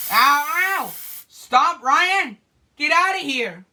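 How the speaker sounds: stung by the spray and shouting him off; real pained yelling. Real, not acted. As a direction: yell at him to get out. Hurt, yelling at Ryan.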